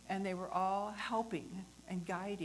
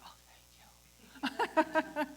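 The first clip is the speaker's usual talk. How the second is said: relieved dispatcher; 8 semitones higher, 10 dB louder, much slower than usual. Retold or imitated.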